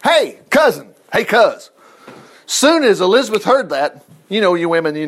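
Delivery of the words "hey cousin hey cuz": casual greeting. Retold or imitated. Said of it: "At the sound of Mary's greeting".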